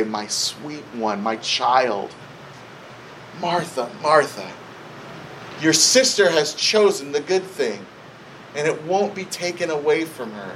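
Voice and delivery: low, unhurried, loving address; tenderly reassuring. Retold or imitated. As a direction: gently settle her, as Jesus would. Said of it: "in a very loving way".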